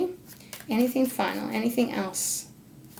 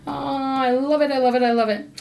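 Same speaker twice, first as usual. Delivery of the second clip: higher-pitched gush of delight; 4 semitones higher, 3 dB louder than usual. Real, not acted. Reader loves the card drawn for Sagittarius, delighted. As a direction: gush it in a quick repeated burst.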